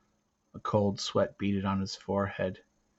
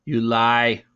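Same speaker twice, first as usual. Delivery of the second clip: accusing; 8 dB louder than usual. Acted. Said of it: "said Garth".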